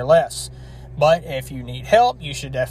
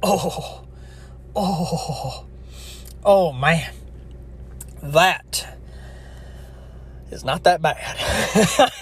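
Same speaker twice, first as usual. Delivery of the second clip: slurping; much slower than usual. Real, not acted. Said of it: "sorry for the slurping".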